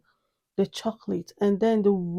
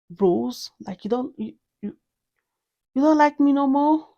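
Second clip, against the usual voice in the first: offended fragrance; 4 semitones higher than usual. Pretend. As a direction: play the hurt perfume, building to an outraged squeal. Fragrance protesting being dropped.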